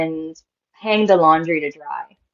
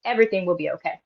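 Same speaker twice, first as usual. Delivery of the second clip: casual grandmother reassurance, lifted at first, then settling; breezy reassurance; 4 semitones higher than usual. Retold or imitated. Grandmother telling child about a spirit, breezy reassurance. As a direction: brush the worry away lightly. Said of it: "in the way she was saying it".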